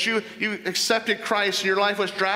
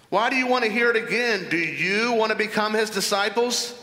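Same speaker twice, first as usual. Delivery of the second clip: sarcastic; 3 semitones higher than usual. Acted. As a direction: needle the Pharisees with a mocking question. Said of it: "I can hear the sarcasm there".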